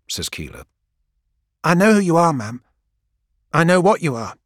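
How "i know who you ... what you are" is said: put-on higher, louder young voice full of reverence; awed young woman. Gang girl telling Keeler she knows her, awed. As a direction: say it in awe of who she faces.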